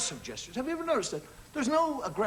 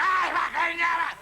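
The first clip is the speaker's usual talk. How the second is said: mock road rage; 5 semitones higher, 5 dB louder than usual. Acted driver rage.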